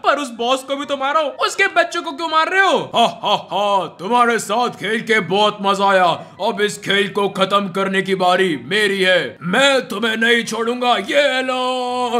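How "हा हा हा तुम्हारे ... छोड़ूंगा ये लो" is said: low, slow menacing villain laugh and taunt; deep gloating zombie villain. Acted. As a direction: gloat like an evil zombie boss. Villain speaks again.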